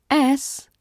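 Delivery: "S" said as a crisp hiss; S sound. Shown as a demonstration. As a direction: isolate the letter S clearly. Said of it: "S is a soft hiss".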